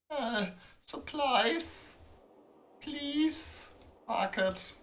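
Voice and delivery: high, slow whining beg; mock-pathetic high pleading voice; whiny high pleading. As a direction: whimper for supplies like a beggar child. Whiny begging at market.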